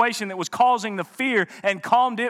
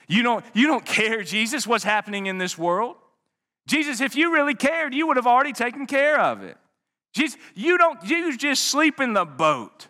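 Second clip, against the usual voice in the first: pleading; 4 semitones higher than usual. Acted. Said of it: "You can just hear the thoughts".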